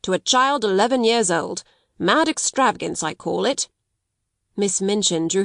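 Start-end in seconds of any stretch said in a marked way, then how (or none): 0.0-3.7 critical. Acted. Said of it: "in the same critical manner".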